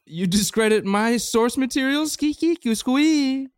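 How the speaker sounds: high, offended scat-man squeak; high squeaky scat. Acted. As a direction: squeal it like a hurt jazz cat. Offended Scatman scatting.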